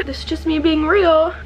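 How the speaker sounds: high, tearful voice trying to calm down; real crying. Real, not acted. Vlogger being real on camera mid-breakdown, tearful. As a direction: push the words out through tears. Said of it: "I'm gonna calm down".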